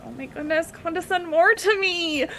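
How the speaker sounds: high, gushing camp exclamation; mock-delighted, pitch climbing to the end; Jonathan Van Ness. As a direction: play it theatrically thrilled and sassy. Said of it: "you reminded me of Jonathan Van Ness".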